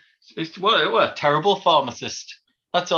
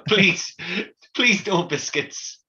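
mock pleading; 3 semitones higher, much slower than usual. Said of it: "That's what you say".

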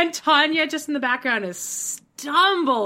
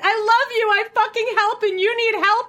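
raised tearful Amber; 9 semitones higher, 5 dB louder than usual. Retold or imitated. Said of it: "Amber's like".

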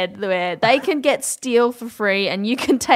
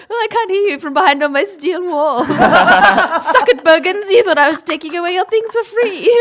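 smug rich voice; 7 semitones higher, 5 dB louder than usual. Pretend. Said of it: "they're gonna be like".

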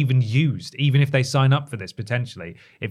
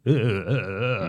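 mock glitchy AI; 2 semitones lower than usual. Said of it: "it sort of goes".

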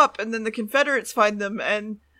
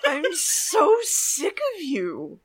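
laughing exasperation; 4 semitones higher, 3 dB quieter, much slower than usual. Real, not acted.

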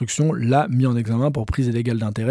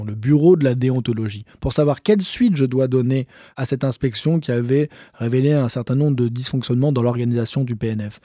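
quoting the minister. Retold or imitated. Reporter quoting the minister's defence on air, lightly acted. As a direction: play the minister pleading he only followed advice, half-acted.

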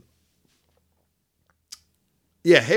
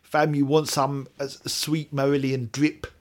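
mock London slang; 2 semitones higher than usual. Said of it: "that accent".

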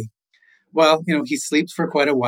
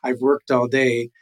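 a touch of weary annoyance; mildly annoyed. Acted. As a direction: grumble lightly at being woken. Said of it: "he's really annoyed".

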